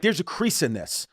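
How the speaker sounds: slow, petty complaint; acting like a dick. Passenger complaining to flight attendant about his jacket, mock obnoxious. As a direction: imitate an obnoxious passenger dwelling on it. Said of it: "he was being such a dick".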